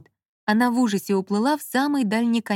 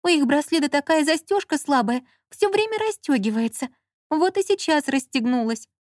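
put-on higher whiny girlish voice; lightly voiced whiny heroine; complaining Lola; 6 semitones higher than usual. A narrator's reading. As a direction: complain like a fussy young woman.

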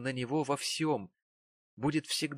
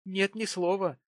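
higher, hasty reply; quick answer; 8 semitones higher than usual. A narrator's reading. Frightened wife answering her husband quickly. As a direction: answer fast to avoid trouble. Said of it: "быстро ответила она".

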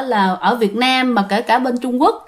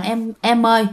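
gently lowered voice, entreating the dead; imitated pleading prayer; 2 semitones lower than usual. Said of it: "khấn vái".

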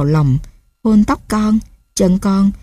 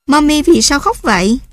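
put-on small child's voice, much higher, asking in alarm; a scared toddler asking why mum cries; frightened child; 7 semitones higher than usual. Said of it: "Gấu hoảng sợ hỏi". (giọng trẻ con hoảng sợ, cao hẳn lên)

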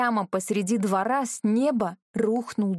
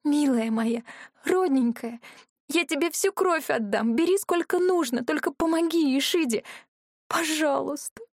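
pleading, near tears; 6 semitones higher than usual. Acted. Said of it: "вымолвила, всхлипывая".

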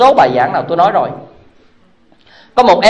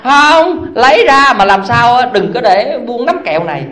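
put-on stubborn child; 3 semitones higher than usual. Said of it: "child answers mother".

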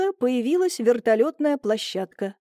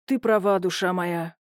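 rueful sigh; 5 semitones lower than usual. A narrator's reading. Husband yielding to his wife, rueful sigh. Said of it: "сокрушённо вздохнул майор".

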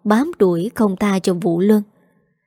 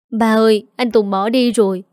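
a daughter wailing her trouble, lightly voiced; whiny complaint. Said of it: "buông lời than vãn".

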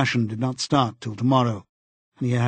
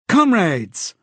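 loud, higher, eager announcer call; eager cry; 7 semitones higher, 6 dB louder than usual. A narrator's reading. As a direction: call out to the comrades with youthful zeal. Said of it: "cried an eager, youthful voice".

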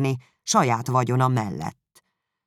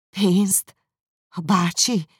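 surprised cry; 6 semitones higher, much slower than usual. A narrator's reading. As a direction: blurt out in shock. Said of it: "kiáltotta Jane". (meglepett, magasabb felkiáltás)

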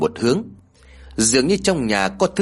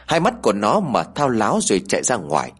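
usual speaking voice

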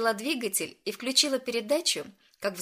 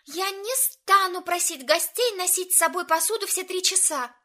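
high, louder, unbending refusal; adamant refusal; 10 semitones higher, 5 dB louder than usual. A narrator's reading. Maya firmly refuses to make guests carry dishes. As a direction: refuse flatly, no room to argue. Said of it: "голос прозвучал абсолютно непреклонно".

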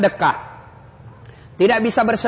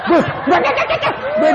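stammering laugh. Retold or imitated. Jinn fleeing the nagging wife.

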